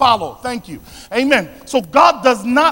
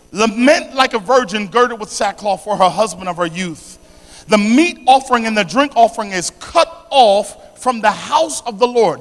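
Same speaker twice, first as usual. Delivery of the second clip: emphatic, declaimed Bible reading; scripture reading. Real, not acted. Preacher reading Joel to the congregation, emphatic declamation. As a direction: read the verse out with weight.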